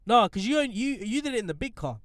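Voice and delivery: ordinary delivery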